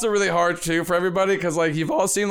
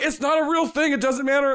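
much higher, lightly mocking dismissive voice; imitating Jerry; 10 semitones higher than usual. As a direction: brush it off in a high mock voice. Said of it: "and then Jerry's just like".

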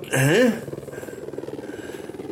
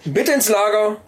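store announcement. Acted. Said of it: "rede wie eine Kaufhausdurchsage".

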